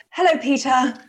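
gentle retake of a greeting; calmer voice. Shown as a demonstration. Co-host redoing her hello for a fragile colleague, calmer. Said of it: "I'll try it in a calmer voice".

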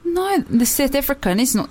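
tight-vowelled South African accent. Shown as a demonstration. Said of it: "I can do South African accent".

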